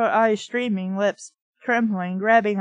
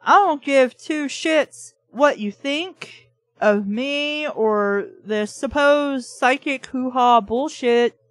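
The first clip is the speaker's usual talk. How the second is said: mock telling off; 2 semitones higher than usual. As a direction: lay into him word by word. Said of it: "you can go over there and be like".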